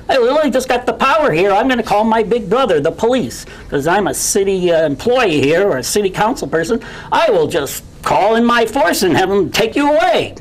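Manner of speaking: mock the smug official threatening to call the police; mock bully. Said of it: "That's bullying".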